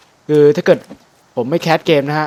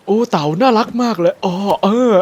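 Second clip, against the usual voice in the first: affected, higher-pitched gushing; pretentious, pitched-up let's-play voice; handsome gamer voice; 7 semitones higher than usual. Shown as a demonstration. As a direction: parody a streamer putting on a handsome voice. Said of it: "อะไรประมาณนี้ฮะ".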